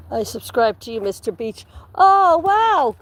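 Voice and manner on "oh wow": excited wow. Real, not acted. Delighted at a subscription.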